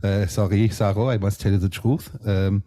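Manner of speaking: Rhythmind in a put-on French accent; a French judge teasing his lazy friend, in a French accent. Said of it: "we come from the same area in France".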